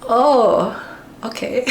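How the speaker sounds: a distracted friend barely listening; imitating roommate. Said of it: "And he was just like".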